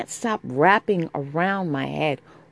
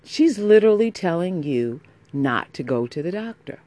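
exasperated rant; 6 semitones higher, 4 dB louder than usual. Real, not acted. Venting fury, raised voice.

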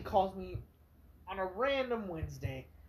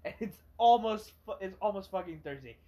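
ranting; 4 dB louder than usual. Retold or imitated. Ranting at the customer in his head.

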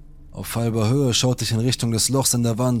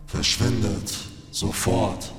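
rasping, distorted, slow spirit voice; deep distorted roar; 2 semitones lower, 3 dB quieter, slower than usual. Acted. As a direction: growl it like a seething spirit. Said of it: "brüllte eine tiefe, schroffe und verzerrte Stimme".

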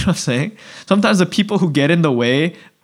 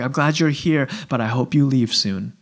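inner thought; 3 semitones lower, 5 dB quieter than usual. Retold or imitated. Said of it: "But inside".

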